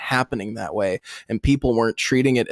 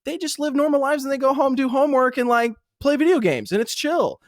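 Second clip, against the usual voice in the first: higher, lightly mocking friend telling him to relax; mock calm-down voice; 5 semitones higher than usual. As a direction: play it like patient older players soothing a hothead. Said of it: "And people are like".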